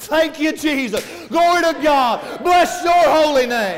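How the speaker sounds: loud praise shout. A preacher acts out the healed man glorifying with a loud voice: retelling a loud praise shout. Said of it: "glorified him with a loud voice. I hear it something like this".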